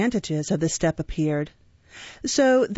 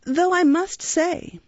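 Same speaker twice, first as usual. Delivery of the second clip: undertaker voice; 10 semitones higher, slower than usual. A narrator's reading. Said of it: "continued the undertaker".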